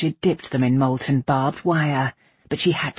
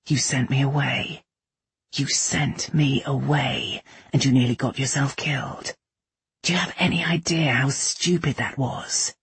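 controlled fury. A narrator's reading. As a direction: hold the anger in, slowing on the repeat. Kai's controlled fury at being sent away.

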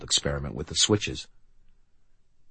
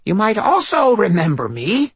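possessed voice over speakers; Constance; 6 dB louder than usual. Acted. Drulinda voice.

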